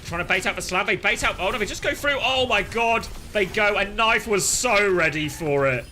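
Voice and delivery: loud, high excited call. Real, not acted. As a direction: shout the big play. Big play, caster excited.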